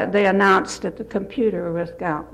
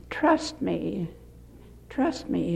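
soft, sweet reassurance with a pause between; 2 semitones lower, 6 dB quieter than usual. Retold or imitated. Young clerk to angry woman in airport line, sweetly reassuring. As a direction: imitate a gentle, soothing young clerk. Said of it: "in a very sweet voice".

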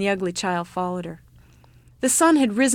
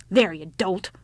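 put-on mildly irritated old woman; 3 dB louder than usual. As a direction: show a touch of impatience. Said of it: "cried with some irritation".

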